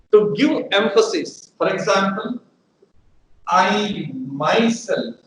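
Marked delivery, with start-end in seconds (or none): 3.5-5.1 "I myself" drawn out slowly; slow, stressed "I myself". Shown as a demonstration. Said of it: "I want to lay stress that I alone will do that".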